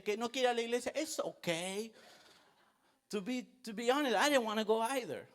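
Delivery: hint of a doting parent pampering the child; mock indulgent parent. Soft-voiced indulgent parents mocked.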